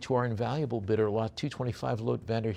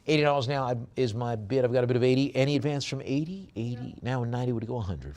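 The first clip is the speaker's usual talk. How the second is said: auctioneer's call; 3 semitones higher, faster than usual. Acted. Auctioneer calls for bids.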